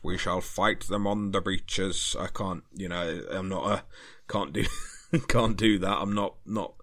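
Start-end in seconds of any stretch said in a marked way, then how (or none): 0.0-2.2 a slower, half-hearted stab at a wartime prime minister; lightly put-on statesman's oratory, drawn out; a modest attempt at the famous wartime broadcast delivery; Winston Churchill voice. Shown as a demonstration. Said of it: "I can't do the, the Winston Churchill voice".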